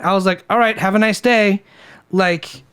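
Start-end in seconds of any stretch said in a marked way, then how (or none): 0.5-1.6 lightly mocking politeness; retold mock-polite send-off; mildly mocking. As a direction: toss off a faintly mocking pleasantry. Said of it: "kinda, like, mockingly".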